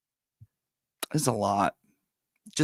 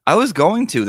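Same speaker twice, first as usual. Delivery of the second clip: surprised; 11 semitones higher, 10 dB louder than usual. Real, not acted. Surprised by chat's comment.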